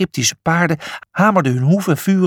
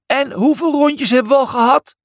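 higher, mock shout; 11 semitones higher than usual. A narrator's reading. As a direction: shout the question over the racket, pitched up. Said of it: "schreeuwde Brutus".

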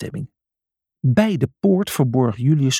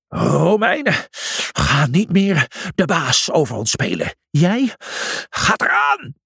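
bellowing; 5 semitones higher than usual. Acted. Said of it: "en bulderde".

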